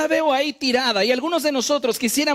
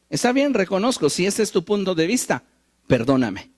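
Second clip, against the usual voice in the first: a proud, grudging apology that blames the listener; arrogant apology; 2 semitones lower than usual. Retold or imitated. Preacher quoting a proud person, arrogant grudging tone. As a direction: apologize while still defending yourself. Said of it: "Altanero, orgulloso".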